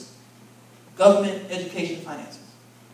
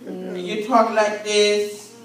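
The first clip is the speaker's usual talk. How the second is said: lightly voiced flat doctor; mock doctor monotone; 4 dB louder, slower than usual. Pastor mocking a doctor's monotone to the congregation. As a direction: imitate a bored doctor's drone. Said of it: "they got the monotone voice".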